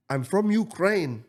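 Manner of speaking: hamming up the stranger's plea; imitating the stranger. Man at the car wash begging the speaker, mock pleading.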